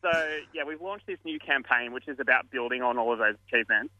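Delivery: winded, breathing between words. Real, not acted. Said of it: "let me catch my breath a bit".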